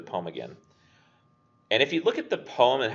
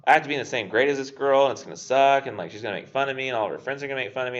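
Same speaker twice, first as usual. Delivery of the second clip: anxious younger self; 4 semitones higher, 3 dB louder, faster than usual. Retold or imitated. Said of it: "not at all what I would have done".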